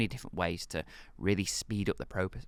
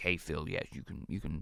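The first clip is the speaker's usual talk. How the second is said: deliberately bad, creaky put-on host voice; 4 semitones lower, 5 dB quieter than usual. Acting out a radio host giving permission: terrible Howard Stern impression. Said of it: "that's a terrible impression".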